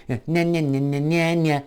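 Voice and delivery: high-pitched meaningless babble; mocking gibberish nya-nya. Their ears turning advice into noise, mocking gibberish. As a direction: cut your lecture off with mocking yammer. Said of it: "For them is".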